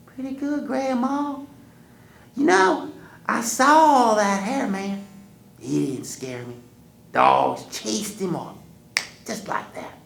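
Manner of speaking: put-on high, loud boyish boast; boy bragging. Wiley telling Grandma about the hairy man, high boyish. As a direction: brag like a proud kid.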